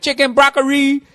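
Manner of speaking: high, clipped mock Asian accent on "broccoli". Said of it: "can't say broccoli without an Asian accent".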